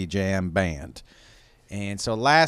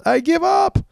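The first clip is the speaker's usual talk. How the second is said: mock defeated; 7 dB louder than usual. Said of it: "your brain goes".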